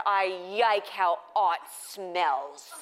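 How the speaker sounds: put-on slow lisping toddler voice, yike for like; lightly voiced small boy savoring the words; little kid voice. Mom imitating her little son's dreamy lisp. Child Brody quoted by mom.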